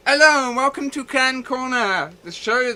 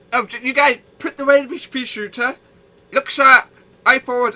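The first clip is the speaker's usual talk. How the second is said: drill sergeant; 4 semitones higher, 7 dB louder than usual. Pretend. Drill sergeant orders to guests.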